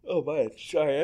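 talking through a yawn; words stretched by a yawn. Real, not acted. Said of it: "I'm yawning now".

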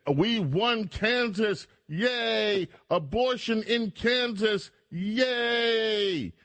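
high, slow, gleeful mock cheer; mock joyful cheering. Host mocking liberals cheering a Kansas win, high giddy squeal. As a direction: ham up a giddy victory squeal. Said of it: "liberals were joyful".

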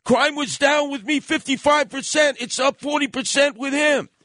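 retold outburst, pitched high and quick; exploding in anger. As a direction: fire back at the heckler like you're blowing up. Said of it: "Rudy exploded".

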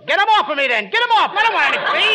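mock panic. Costello begging Bud to get the fleas off, mock panic. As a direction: yelp as if fleas are on you.

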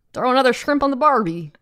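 mock Australian tourist-ad accent. Shown as a demonstration. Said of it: "It's Australian".

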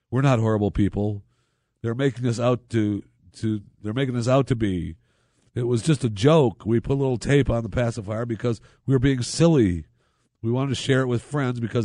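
a hint of an indignant grandmother pleading her case; defensive grandmother. Host voicing the grandmother's defence.

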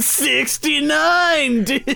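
drawn-out, high-pitched dude-bro whoop; hyped yell. Acted. Host reveals the episode number to his co-host, hyped yell.

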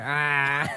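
loud ah with tongue out. Shown as a demonstration. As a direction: say ah with tongue stuck out. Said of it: "stick your tongue out after, say".

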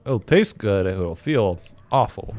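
talking while chewing; words round a mouthful of food; mouth full. Real, not acted. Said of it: "finish chewing before you talk".

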